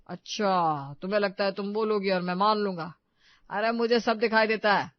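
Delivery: loud, scoffing acted retort; sarcastic disbelief. Husband refusing to believe wife, sarcastic and loud. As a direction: dismiss her claim with loud sarcasm.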